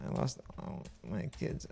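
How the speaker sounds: breathy whisper. Shown as a demonstration. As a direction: whisper the line. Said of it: "second take whispered".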